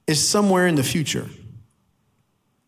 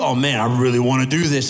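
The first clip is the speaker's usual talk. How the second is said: mock yearning; 3 semitones lower than usual. Voices his own tempting urge.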